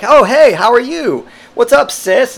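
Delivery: high, bright-eyed mock-friendly hello; high sugary sibling hello; sweet sister greeting. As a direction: chirp it like a clueless sister. Sister greeting, voiced in story.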